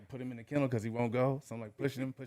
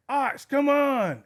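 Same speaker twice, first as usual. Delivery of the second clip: long, high shout across the park; calling the dog; 14 semitones higher, 8 dB louder, much slower than usual. Retold or imitated. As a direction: call him back from far away.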